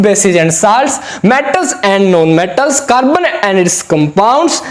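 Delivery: slow, spelled-out classroom recitation; slow demo reading. Shown as a demonstration. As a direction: read each word very slowly, spaced out. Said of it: "बच्चों, आपको ऐसे पढ़ना है".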